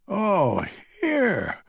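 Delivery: put-on high, fussing old woman's cluck; clucking old lady. A narrator's reading. Old lady fusses over Jacob at the window, high clucking voice. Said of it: "clucks Hazel".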